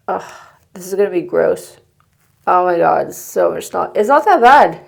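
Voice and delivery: blocked nose after surgery; with a broken nose. Real, not acted. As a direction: talk through a packed, swollen nose. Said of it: "I just had the insides of it scraped".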